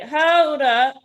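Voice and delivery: woman stopping a stranger's kiss; firm stop. Retold or imitated. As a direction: halt him mid-move.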